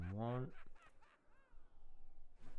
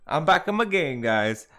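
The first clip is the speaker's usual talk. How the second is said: very loud, high, triumphant whooping; real elated yelling, pitched way up; excited celebration; 11 semitones higher, 21 dB louder than usual. Real, not acted. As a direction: shout it out, thrilled with yourself. Celebrates nailing the accent.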